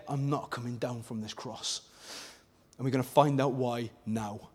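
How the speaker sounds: quiet reverence after the jeers; hushed solemn. Real, not acted. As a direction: let it drop to a hush.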